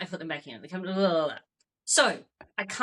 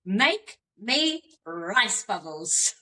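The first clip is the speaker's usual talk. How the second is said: put-on bossy child; much slower than usual. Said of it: "child demanding breakfast".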